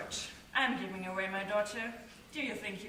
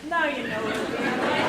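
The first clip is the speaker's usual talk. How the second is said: reassuring; 8 dB louder than usual. Acted. Father calms Emily.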